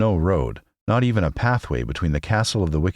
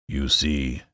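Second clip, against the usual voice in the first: whimpering; 3 semitones lower, 3 dB quieter than usual. A narrator's reading. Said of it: "said the Cowardly Lion with a whimper".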